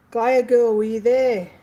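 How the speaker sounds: loud, bright call to a viewer; light up at the name; excited call-out. Real, not acted. Host hailing a viewer in the chat, excited call-out.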